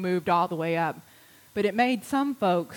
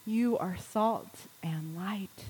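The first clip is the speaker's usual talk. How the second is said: breathy hushed whisper; 6 dB quieter, slower than usual. Real, not acted. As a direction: drop to a whisper for the blessing. Whispered affirmation in sermon.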